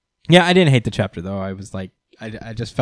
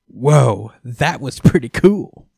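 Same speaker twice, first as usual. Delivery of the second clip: loud, awed "whoa"; lightly voiced excited fighter; impressed mock Luck; 7 dB louder, slower than usual. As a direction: gush over the fight like an eager rival. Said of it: "Even Luck is like".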